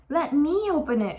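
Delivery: high, loud, eager demand; shouting. Acted. Friend wants to open treasure, shouting. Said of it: "shouted Buster".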